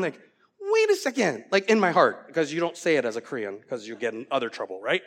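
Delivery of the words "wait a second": high and loud protest; indignant surprise. Retold or imitated. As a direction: blurt it out in disbelief. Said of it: "I remember sitting there going".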